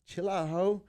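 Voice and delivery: imitated star, high and loud; mock celebrity brush-off; Anthony Anderson. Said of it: "He goes".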